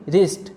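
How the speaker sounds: रिस्ट starting straight on R; silent W. Shown as a demonstration. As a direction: say रिस्ट without any W sound. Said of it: "डब्ल्यू silent रहेगा".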